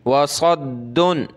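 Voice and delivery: वसद्दुन with a firm held stop on "dd"; hard doubled daal. Shown as a demonstration. Teacher drilling recitation, hard doubled daal in वसद्दुन. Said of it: "दाल को सख्त करें".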